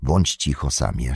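low, hushed warning; whispered. Acted. Frodo silencing Sam near the orcs, whispering. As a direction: hush a companion very softly. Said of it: "szepnął Frodo".

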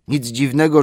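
sleepy butler excusing himself; grumbling old butler. A narrator's reading. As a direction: defend yourself crossly. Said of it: "mamrotał".

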